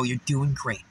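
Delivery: low, soft reassurance; gentle encouragement. Retold or imitated. To a woman stuck at the light, gentle encouragement. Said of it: "she looks over at me".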